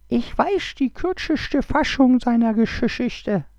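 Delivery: high, slow, whispered snake hiss; lisping hissing snake. Acted. The snake offers to tell the Kobold's story, whispered and hissing. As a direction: breathe it out like a sly lisping snake. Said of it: "lispelte und zischelt die Schlange".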